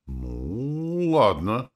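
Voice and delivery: grudging consent; reluctant. A narrator's reading. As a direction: give in unwillingly. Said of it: "проговорил Архон нехотя".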